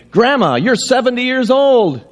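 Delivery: put-on high, triumphant child's voice; little girl. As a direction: announce it like a kid who caught grandma out. Girl finds driver's license.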